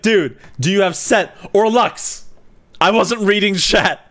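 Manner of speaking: quoting the freaked-out guy, mildly frantic; imitating a panicked teammate. Imitating a teammate who didn't read chat, mock panic. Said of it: "This guy was, like, freaking out".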